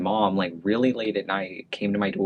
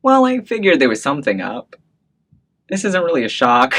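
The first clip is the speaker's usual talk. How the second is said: imitating mom; 7 semitones higher, 7 dB louder than usual. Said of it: "she was like".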